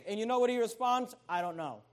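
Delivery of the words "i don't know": much lower and much softer, trailing off; sheepish mumble. Acted. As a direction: mumble it as if you have no real answer. Ahimaaz's weak answer to king.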